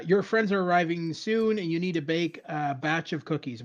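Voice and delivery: lightly acted game narration; a hint of a hurried Shatner read. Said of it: "that's a good impression of Shatner".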